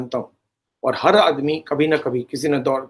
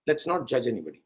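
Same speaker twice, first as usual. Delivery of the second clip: soft plea; 5 semitones lower, 10 dB quieter, much slower than usual. Real, not acted.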